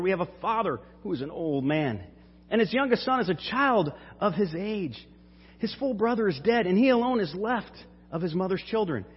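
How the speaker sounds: put-on Judah begging the lord to spare the boy; pleading Judah. Judah pleads before Joseph.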